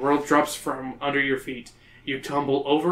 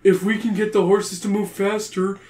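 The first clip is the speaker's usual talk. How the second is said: high, slow urgent shout; cries out; 5 semitones higher, 4 dB louder, slower than usual. Acted. Brad crying out his plan to friends. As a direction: point out the elves' timing eagerly. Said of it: "Brad cries out".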